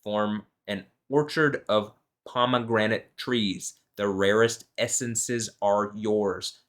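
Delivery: slow, measured Bible reading; scripture reading. Acted. Reading Song of Songs aloud to viewers, slow and measured. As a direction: read the verses slowly and solemnly.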